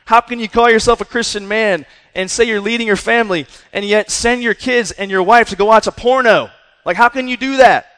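demanding how a Christian dad could allow it; livid rebuke. Retold or imitated. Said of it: "I was livid".

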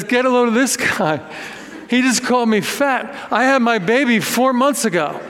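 a hint of an indignant Staten Island woman; Staten Island accent. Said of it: "in her Staten Island accent".

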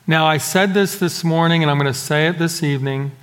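muffled behind a face mask; through a face mask. Real, not acted. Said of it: "I know that it's muffled".

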